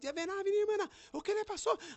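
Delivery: very high, excited, eager voice.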